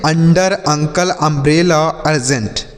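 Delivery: very slow, each word spaced out for pupils; teacher reading the words slowly for the class; slow model reading. Shown as a demonstration. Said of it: "इसे हम क्या पढ़ेंगे".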